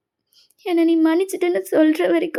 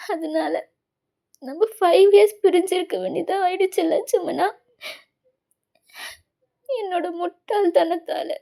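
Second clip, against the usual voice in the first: crying apology; 2 semitones higher than usual. Acted. Tearful confession to Jimmun.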